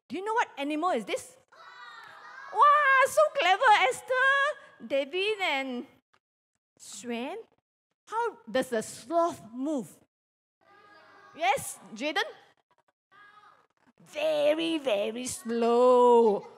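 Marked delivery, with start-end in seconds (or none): 2.5-7.4 delighted praise. Real, not acted. Teacher praising Esther for naming the sloth, excited. 14.1-16.5 drawn-out, slow "slow". Shown as a demonstration. Teacher showing how a sloth moves, slowly. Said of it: "as slowly as a sloth moves".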